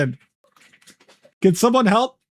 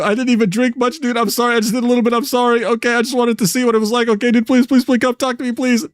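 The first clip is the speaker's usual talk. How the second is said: higher, whiny pleading apology, lightly hammed; mock whiny begging; 6 semitones higher, faster than usual. Streamer voicing drunk friend begging Kirby, mock whiny plea. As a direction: beg like a tipsy friend who's scared you're mad. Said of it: "And Perfect would continue".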